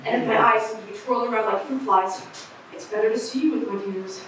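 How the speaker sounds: a lightly voiced raspy street eccentric rambling to passersby; raspy street oddball. Eccentric on the street corner addressing the crowd, lightly raspy. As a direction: play a scratchy-voiced crank holding court on the corner. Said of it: "You don't like my raspy voice".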